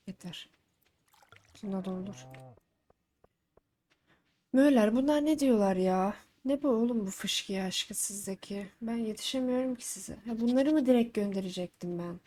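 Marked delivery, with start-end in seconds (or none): 4.5-8.7 exasperated outburst. Real, not acted. Exasperated at the sprinkler requests.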